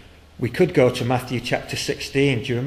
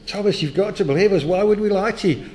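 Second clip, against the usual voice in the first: loud, high insistent plea; urgent pleading; 8 semitones higher, 4 dB louder than usual. Acted. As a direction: beg him to believe, raising the voice. Disciples pleading with doubting Thomas.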